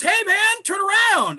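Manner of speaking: high, loud command; mock cop order. Cop ordering him in story.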